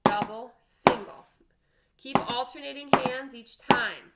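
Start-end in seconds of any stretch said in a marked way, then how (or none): 0.0-1.2 loud counted drum call; loud called sticking. Shown as a demonstration. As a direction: call each stroke out loud, like a drum teacher. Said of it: "Alternate hands".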